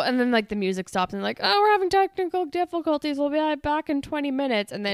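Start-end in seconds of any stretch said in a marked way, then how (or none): 1.4-4.7 imitating an awkward announcer, higher and louder; mock stage apology; band's stage announcement. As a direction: put on a high announcer voice. Acting out the band's stage excuse.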